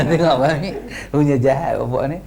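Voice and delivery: amused, incredulous aside with laughter; laughing scorn. Real, not acted. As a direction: scoff through a laugh. Scoffs at a claim, laughing. (ketawa mengejek)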